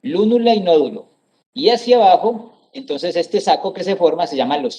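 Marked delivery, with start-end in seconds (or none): 0.0-1.1 "lúnula y nódulo" stressed on LÚ and NÓ, higher; stress on first syllables. Shown as a demonstration. Teacher sums up both esdrújulas, "lúnula y nódulo" stressed on LÚ and NÓ. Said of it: "son esdrújulas".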